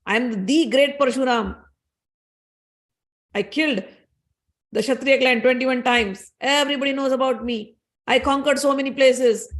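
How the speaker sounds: mildly acted indignant tirade; a touch of anger, indignant and boastful; Parshuram. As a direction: retell an angry warrior pulling rank, lightly acted. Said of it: "in his anger, he starts abusing him".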